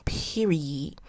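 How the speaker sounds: breathy whispered punch; whispered period. Real, not acted. Host ending her point, whispered period. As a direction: drop the word in a whisper. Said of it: "punchline whisper".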